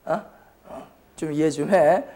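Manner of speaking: usual speaking voice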